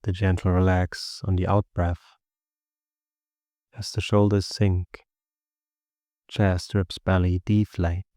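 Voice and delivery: even, unhurried meditation guidance with long pauses; steady meditation voice, little pitch movement; guided meditation. Acted. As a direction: guide listeners gently into the body and breath.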